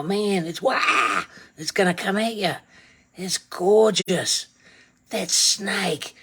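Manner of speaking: lightly voiced awed nature host; a hint of hushed wonder over the detail; funny documentary voice. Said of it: "here we come with the funny voice".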